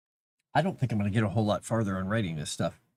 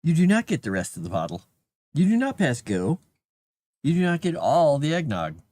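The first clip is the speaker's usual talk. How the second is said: louder, playful firm no to the pet; mock stern scolding; 4 semitones higher, 4 dB louder than usual. Real, not acted. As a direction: lay down the law to the cat, half joking. Scolding the cat over eggnog.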